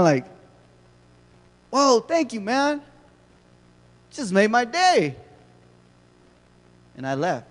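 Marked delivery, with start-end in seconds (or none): 1.7-5.1 much higher, beaming and grateful; delighted thanks. Retold or imitated. Grumpy customer won over, thanking the cashier, higher and beaming.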